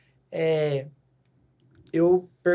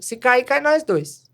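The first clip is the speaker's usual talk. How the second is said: serious joking warning; 2 semitones higher, 6 dB louder than usual. Retold or imitated. Coach to scared girl on bike, playfully serious and louder. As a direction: say it mock-serious so it lands as a joke. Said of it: "tô sério".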